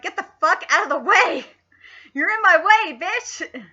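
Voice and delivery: mock angry rant. Vlogger imitating Todoroki telling him off, angry. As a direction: bark it at the rival like a brat. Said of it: "'cause Todoroki's like".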